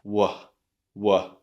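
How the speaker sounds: w, an open vowel with no R; R softened away. Shown as a demonstration. Teacher building the word from its start, R softened away. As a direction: say w plus a breath of vowel, R dropped. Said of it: "change the R to a H sound".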